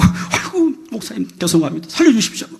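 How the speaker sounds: high, loud mock begging; hammed-up frantic apology; desperate pleading. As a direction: mimic someone on their knees begging for mercy. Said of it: "바로 꿇어앉아갖고".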